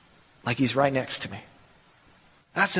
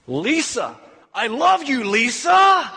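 building to a loud, high shout on the last "Lisa"; husband preaching his love at his wife, building to a shout; mock preacher shout; 6 semitones higher, 5 dB louder, slower than usual. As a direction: bellow it like a tent-revival preacher. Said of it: "She would just shake her head".

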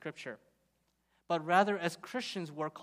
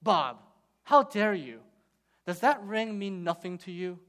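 louder, mock-outraged wife; a hint of an offended wife; indignant wife; 6 dB louder than usual. Wife scolding her husband at dinner, mock indignant and loud. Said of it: "the wife looks at her husband and says".

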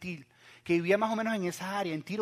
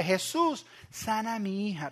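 pleading call; 2 semitones higher, slower than usual. Retold or imitated. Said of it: "está atrás gritando".

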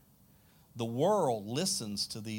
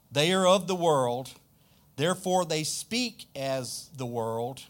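Bible verse read out with a lift at the start; scripture reading. Acted. Reads scripture verse aloud.

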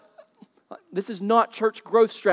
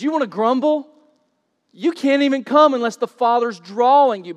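louder, higher challenge thrown at the crowd; forceful rebuke; 5 semitones higher, 7 dB louder than usual. Acted. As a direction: preach it as Jesus confronting grumblers. Preacher voicing Jesus' rebuke.

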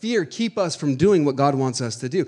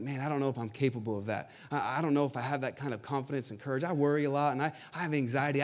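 worried inner voice; 7 dB quieter than usual. Retold or imitated. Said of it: "and we think".

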